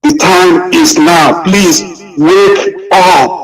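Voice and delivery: slow, tearful, high pleading voice; crying plea. Real, not acted. Speaker in tears urging Biafrans that the time is now. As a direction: cry out the plea, barely holding on. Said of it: "I'm getting emotional".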